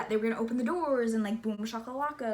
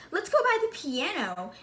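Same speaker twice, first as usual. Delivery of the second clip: high, raised, sing-out call; imitated cheerful invitation; 7 semitones higher, 4 dB louder than usual. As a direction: call the group over, pitched up.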